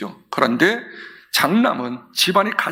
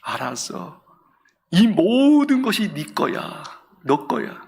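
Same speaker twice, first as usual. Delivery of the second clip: gentle fatherly embrace; 3 semitones lower than usual. Acted. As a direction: speak like you are hugging him, no raised voice. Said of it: "큰 소리 않고 이렇게 안아주시오".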